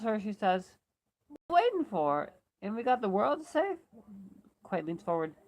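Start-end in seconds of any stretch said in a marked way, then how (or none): 1.5-3.8 raised, louder call to hurry up; rally the stragglers with a high, loud voice; impatient urging. A narrator's reading. Loretta urges lagging companions on.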